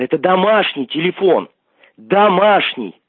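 ordinary talk

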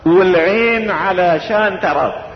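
slow, drawn-out recitation of a love verse; recited verse. Retold or imitated. Preacher to congregation, reciting the verse slowly. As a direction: savour each word slowly like poetry. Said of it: "لسان حاله يقول".

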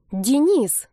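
имя выкрикнуто выше и громче; сорваться на брата криком. Acted. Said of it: "заорала она вдруг на брата". (окрик на брата)

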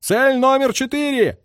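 high, drawn-out officers' call; sustained high-pitched calling; singsong command. A narrator's reading. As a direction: sing out the target order slowly. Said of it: "запели голоса офицеров".

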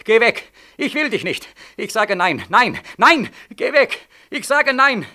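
high and loud, building to a shout; man shouting down his inner voice, angry and rising; angry refusal. Acted. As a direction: push him away harder each time. Rejecting the other, rising.

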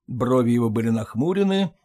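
plain reading voice

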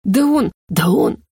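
slow, sputtering «Да он, да он!»; choking on his own outrage; sputtering indignation. Acted. Rector flares up defending himself, slow sputtering indignation. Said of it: "Снова взвился лорд-ректор".

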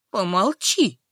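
mild angry hush; a touch of anger, shut her up. Acted. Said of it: "зло сказала Альжбетка". (слегка зло)

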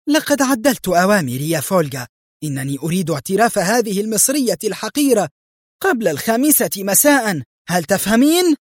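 high, edgy commands; irritable. A narrator's reading. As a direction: order the guard about with mounting edginess. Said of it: "وهي تقول في عصبية".

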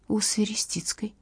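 whispered answer. A narrator's reading. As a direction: breathe the name out softly. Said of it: "честно ответила Катя".

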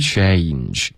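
"change" with eh gliding into ee; full diphthong. Shown as a demonstration. Teacher finishing the demo, full glide. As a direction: let the vowel in "change" slide fully before n. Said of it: "change有一个双元音".

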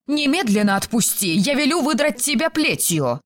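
high-pitched indignant outburst; indignant cry. A narrator's reading. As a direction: threaten in a high, outraged voice. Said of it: "возмущённо завопила Филиппа". (возмущённый вопль)

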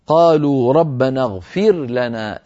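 slow recited verse; slow tajwid recitation; Quran recitation. Shown as a demonstration. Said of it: "قوله تعالى".

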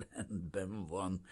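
slow, soft, satisfied approval; friendlier. A narrator's reading. Official now pleased with the refugee, friendly. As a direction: soften and slow down with a smile. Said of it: "szemmel láthatólag barátságosabb lett".

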